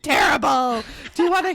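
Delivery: mock gloomy overshare. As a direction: play up the misery for laughs. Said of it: "I'd be like".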